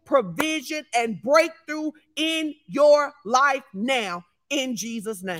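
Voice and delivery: emphatic preacher, slowing into the declaration; preaching decree. Real, not acted. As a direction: proclaim it over the congregation, slowing down word by word. Preaches a decree over listeners.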